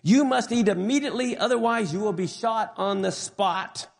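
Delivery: a guard's high-pitched demand; mildly acted high-pitched SS order; high-pitched command. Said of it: "commanded in a high-pitched voice".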